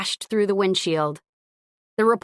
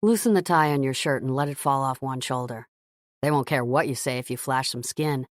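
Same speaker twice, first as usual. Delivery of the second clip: lower, teasing male voice; man's voice; 5 semitones lower than usual. Acted. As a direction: tease her, playful man. Gavin teasing Scarlett.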